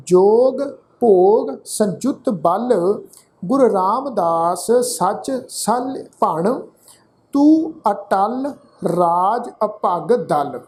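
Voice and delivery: measured Gurbani reading, phrase by phrase; deliberate teaching recitation of sacred verse; scripture recitation. Shown as a demonstration. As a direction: recite with drawn-out vowels and pauses between phrases.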